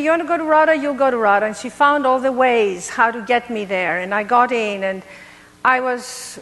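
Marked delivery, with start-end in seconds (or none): 0.0-1.5 mother's voice. Retold or imitated. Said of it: "So she said to me".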